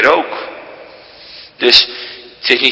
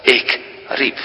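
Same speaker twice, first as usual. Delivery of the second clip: soft quoted cry; 5 dB quieter than usual. Shown as a demonstration. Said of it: "De tekst legt zichzelf uit".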